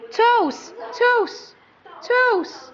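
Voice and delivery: excited. Real, not acted. Excited prompting baby.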